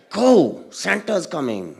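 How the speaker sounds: mom's voice. Retold or imitated. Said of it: "my mom ... goes".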